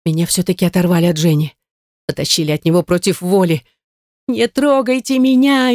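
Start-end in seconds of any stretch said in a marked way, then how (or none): 4.3-5.8 hysterical scream. A narrator's reading. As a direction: shriek at them to let go. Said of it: "истошно закричала я".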